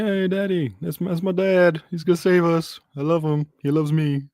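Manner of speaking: high, eager mock kid voice; starry-eyed boy showing off his dad; adoring son. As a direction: gush proudly about daddy in a hammed-up high voice. Acting out Colin cheering his dad.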